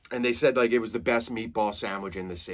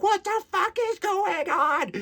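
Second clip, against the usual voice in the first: much higher, slow, frantic; panicked teen; slower than usual. Retold or imitated. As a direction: squeal it like a terrified new driver. Scared teen driver panicking.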